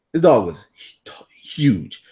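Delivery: whispered in awe; awed whisper. Acted. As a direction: whisper it like a secret about the giant dog. Stressing size of huge dog.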